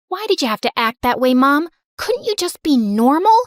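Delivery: put-on a fed-up kid scolding her mom; upset kid. Kid arguing with embarrassing mom.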